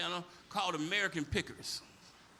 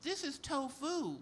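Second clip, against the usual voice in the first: condescending; 4 semitones higher, 3 dB quieter than usual. Retold or imitated. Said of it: "You're like".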